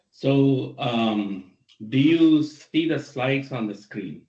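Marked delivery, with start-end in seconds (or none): 1.9-4.2 faint, distant mic voice; barely audible. Real, not acted. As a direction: far away and very faint. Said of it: "The voice is not audible".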